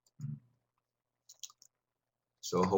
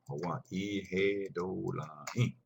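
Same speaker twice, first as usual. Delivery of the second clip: slow demonstration; much slower than usual. Shown as a demonstration. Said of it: "teacher models Cherokee phrase".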